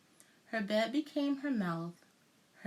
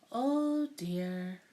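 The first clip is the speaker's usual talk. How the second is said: put-on a touch of sadness, old lady voice; sadly; 3 dB louder than usual. A narrator's reading. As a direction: let her down gently. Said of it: "the old woman said sadly".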